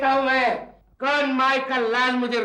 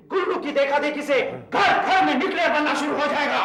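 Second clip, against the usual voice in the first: raised, indignant protest; indignant outburst; 3 semitones higher than usual. Acted. Neighbour warns everyone will copy, indignant shout. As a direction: complain hotly, voice pushed up.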